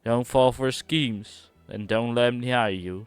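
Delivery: a hint of a put-on accent, earnest warning; voicing the NPC. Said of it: "I don't know why I'm voicing the N P C".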